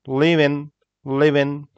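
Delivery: 'live in' run together to sound like 'living'; linked 'living', not lifted at the end; natural linked pronunciation. Shown as a demonstration. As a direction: say 'living' as one short word, level. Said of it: "how we say it".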